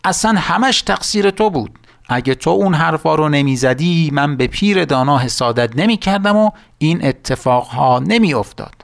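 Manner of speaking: a touch of storybook fury; angry blaming. Acted. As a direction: witch scolding her assistant, mildly angry. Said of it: "با عصبانیت بهش نگاه کرد و گفت".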